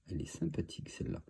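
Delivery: breathy whisper, admiring the card; whispered aside. Real, not acted. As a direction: say it under your breath like a secret.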